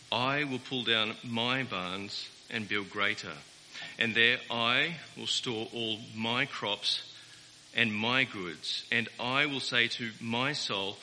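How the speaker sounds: slow solemn reading of Luke twelve; scripture reading. Acted. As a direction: read the parable slowly and deliberately. Reading scripture aloud slowly.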